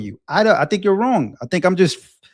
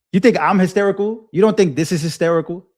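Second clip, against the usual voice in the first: incredulous; 3 semitones higher than usual. Real, not acted. Challenging being called hysterical.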